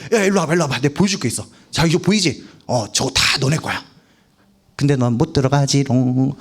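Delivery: lightly teasing, mock-playful voice of God; licht plagerig. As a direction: dangle it, then take it away in a mild sing-song taunt. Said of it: "막 약 올리는 게 아니라".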